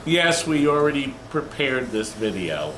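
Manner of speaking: talking round a bite of donut; mouth full. Real, not acted. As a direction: speak through a mouthful. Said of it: "talk with your mouth full".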